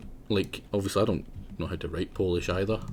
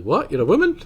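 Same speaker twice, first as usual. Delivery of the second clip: higher, louder incredulous squeak; mock shock that she's a woman; mock disbelief; 9 semitones higher, 9 dB louder than usual. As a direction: play the clueless guy, shocked. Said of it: "Then he's like".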